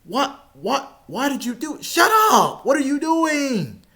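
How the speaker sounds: high, incredulous protest; mock outraged self. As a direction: play your younger self, fed up. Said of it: "I'm like".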